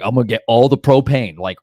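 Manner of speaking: pumped-up self quote. Retold or imitated. Retelling own propane run plan.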